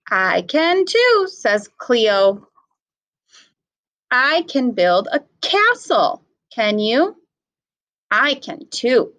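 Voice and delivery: put-on slow, clear storybook read for little kids; reading to children. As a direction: read it out to the class, unhurried. Teacher reading picture book aloud.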